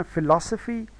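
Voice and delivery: फिलॉसफी said fi-LOS-uh-fee; फिलॉसफी with a light first syllable and strong second; stress on second syllable. Shown as a demonstration. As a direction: punch the लॉ in फिलॉसफी. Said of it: "ये दूसरा जो है".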